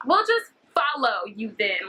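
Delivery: slow, creepy imagined version with FOLLOW stretched; slowed-down ominous replay. Retold or imitated. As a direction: drag out FOLLOW slowly, as heard in her head. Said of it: "that's how it happened in my head".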